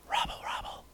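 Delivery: creepy whisper; Hamburglar. Retold or imitated. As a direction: whisper it very softly, mildly seductive and weird. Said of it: "he whispers".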